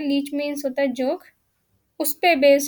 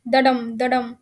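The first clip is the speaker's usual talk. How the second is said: two "दडम" beats, light "द", strong "डम"; stress on the second beat; 3 semitones lower, much slower than usual. Shown as a demonstration. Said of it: "दम पे पूरा stress है".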